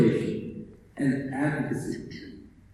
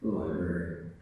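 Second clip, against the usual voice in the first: lordly, mock-grand librarian voice, slow and savoring the titles; arrogant librarian. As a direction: play the haughty master of the desk. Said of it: "it often gets interpreted as".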